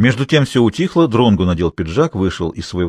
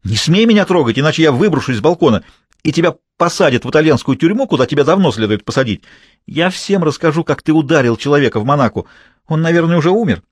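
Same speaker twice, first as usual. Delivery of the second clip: higher, louder furious threats; 6 semitones higher, 3 dB louder than usual. Acted. Furious mistress threatening her lover with what she saw in Monaco. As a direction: threaten to tell everyone. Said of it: "разозлилась Изольда".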